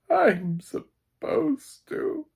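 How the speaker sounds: very high, very slow, stretched-out crazy voice; unhinged woman. Acted. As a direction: drag it out like she's lost it. Acting the crazy woman's dialogue.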